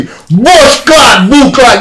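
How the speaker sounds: high, loud Jamaican patois shout; a girl snapping into Jamaican patois shouting; sudden Jamaican patois. Retold or imitated. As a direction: flip from classy British girl into Jamaican patois. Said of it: "turn straight jam rock on you".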